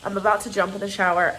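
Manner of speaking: congested, rough sick voice. Real, not acted. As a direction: talk through a bad cold. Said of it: "I sound terrible".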